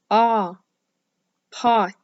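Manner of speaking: pot with an open ah; short O demo. Shown as a demonstration. Teacher modelling the short O in pot. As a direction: say ah then pot, punching the vowel. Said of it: "The word pot has the short O sound".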